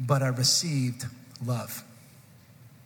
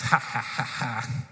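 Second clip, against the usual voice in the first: mock menacing laugh; 4 semitones lower, slower than usual. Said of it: "menacing laugh".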